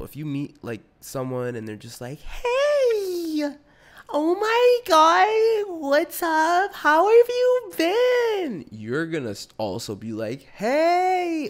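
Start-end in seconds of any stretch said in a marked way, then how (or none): 2.2-8.6 shrill high squeal of overexcited hello, much louder and slow; fake excited greeting. Mocking someone's fake public greeting, squealing. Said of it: "fake breeds fake". 10.4-11.5 high, louder squeaky hey; matching fake hello. Answering a fake greeting, matching its squeal. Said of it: "to match the tone".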